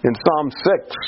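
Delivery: ordinary delivery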